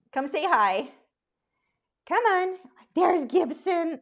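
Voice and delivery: high, sing-song call to the dogs. Real, not acted. Owner calling her dogs to come say hi, high coaxing call. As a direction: coax the lazy dogs to come over.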